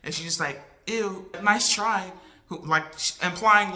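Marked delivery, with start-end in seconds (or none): 0.9-2.1 disgusted scoff. Retold or imitated. Girl mocking the used lipstick.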